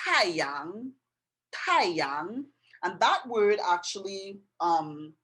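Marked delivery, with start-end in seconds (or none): 0.1-2.4 taiyang said with a rising tone on yang, slow and clear; Chinese taiyang. Shown as a demonstration. Teacher teaching the Chinese word for sun. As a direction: model taiyang twice for learners. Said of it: "And it's pronounced".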